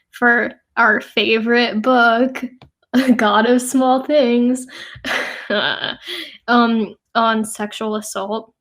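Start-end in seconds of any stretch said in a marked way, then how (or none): 2.8-5.5 said through a laugh, slow; name it with a real giggle in the voice. Real, not acted. Student laughingly naming the book for a project, amused.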